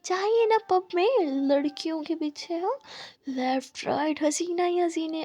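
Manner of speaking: put-on a jealous girlfriend taunting. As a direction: sneer it at him. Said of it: "मुस्कान बोलती".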